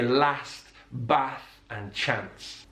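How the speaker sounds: short northern "a" in last, Bath and Chance; Birmingham vowel. Shown as a demonstration. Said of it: "So in Birmingham, you would hear".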